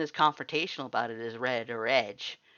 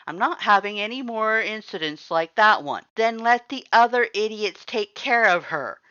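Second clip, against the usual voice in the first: higher, louder angry voice; furious argument; 9 semitones higher, 11 dB louder than usual. A narrator's reading. Sans yells at the lord in the kitchen. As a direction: fling it at his brother.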